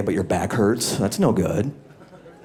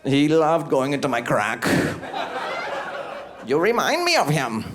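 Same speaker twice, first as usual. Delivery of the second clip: soap talking to soap; 4 semitones higher than usual. Acted. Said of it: "I was like".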